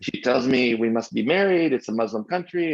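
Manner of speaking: put-on a retelling in an amateur French accent. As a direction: imitate a French friend telling his story. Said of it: "I'll do my best French accent here".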